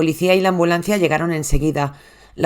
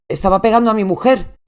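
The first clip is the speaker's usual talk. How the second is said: panicked plea; 4 semitones higher, 3 dB louder than usual. Retold or imitated. Husband begging the 911 operator, frantic. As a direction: voice raised, frantic and pleading.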